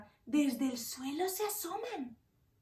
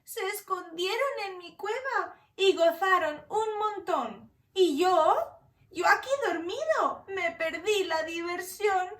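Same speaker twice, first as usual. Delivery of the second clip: higher, louder whimpering bear complaint; upset bear who missed the party; whiny sad bear; 4 semitones higher, 4 dB louder than usual. Acted. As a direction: whine like a bear left out.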